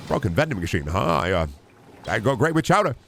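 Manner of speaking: lightly put-on, bobbing streamer impression; Germa. Streamer doing an impression on request, lightly voiced impression. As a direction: let the pitch jump up at phrase ends. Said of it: "a Germa impression".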